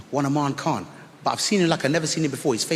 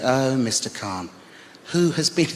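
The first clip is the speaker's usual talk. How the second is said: teacher calmly correcting the uncle; cool teacher. Retold or imitated. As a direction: turn the question back on him coolly. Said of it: "she said".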